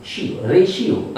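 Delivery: रेशियो said with sh, re-shi-o; sh sound shown. Shown as a demonstration. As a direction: break रेशियो up to show the sh. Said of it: "तो ये हो गया सी ओ".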